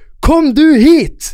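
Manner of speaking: very high, loud yelled shout. Retelling an argument with a woman on a tram, shouting back. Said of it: "Og jeg bare roper tilbake".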